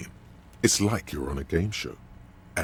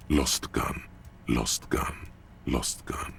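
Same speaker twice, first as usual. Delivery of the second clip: fading echo; 4 semitones lower, slower than usual. Acted. Narrator echoing the words as they fade, low and dying. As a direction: let it trail off like an echo.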